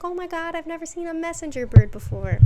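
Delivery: mock wide-eyed awe; amazed. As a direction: awestruck at a messenger bird. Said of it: "She's like".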